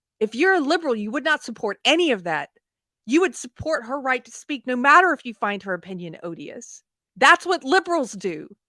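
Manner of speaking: emphatic ranting tirade, pitch climbing. Reacting to viewer comments, the speaker makes a point, yelling. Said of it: "Sorry for the yelling".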